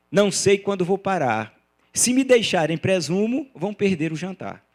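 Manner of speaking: rhythmic reading of verse; verse recitation. Acted. Lecturer quoting his own poem for Laís, rhythmic recitation. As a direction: recite the lines in metre.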